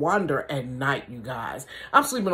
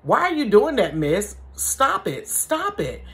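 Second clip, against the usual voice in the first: a man's voice; 5 semitones higher, slower than usual. Retold or imitated. A man calling to granny at the window, lightly pleading. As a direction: call out stop like a worried neighbor. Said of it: "I hear this man saying".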